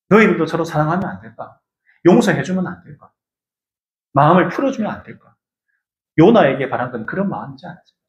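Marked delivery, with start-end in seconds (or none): 0.1-5.4 tender plea. Acted. God pleading tenderly.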